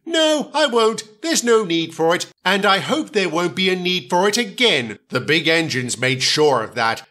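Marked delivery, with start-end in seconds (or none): 0.1-5.0 calm small engine voice. Acted. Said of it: "Percy answers".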